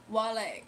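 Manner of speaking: A rapper's name as wah-lay, falling. Shown as a demonstration. Streamer repeating the rapper's name, wah-lay. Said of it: "the musical artist".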